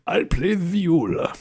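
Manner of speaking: snooty pride. Pretend. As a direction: announce it like an offended snob. Indignant viola player bit.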